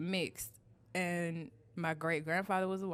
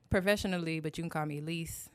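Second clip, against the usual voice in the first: usual speaking voice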